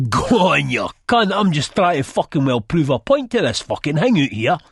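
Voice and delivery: loud, high jeering shout; rowdy shouting. A narrator's reading. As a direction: shout it out, egging them on. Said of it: "Chizzy's laughing and shouting".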